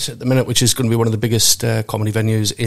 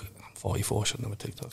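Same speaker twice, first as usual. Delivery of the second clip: breathy whisper, much softer; whispered aside; 2 semitones lower, 16 dB quieter than usual. Real, not acted. Admitting his age to the hosts in a whisper. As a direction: drop to a whisper for the joke. Self-deprecating aside about TikTok.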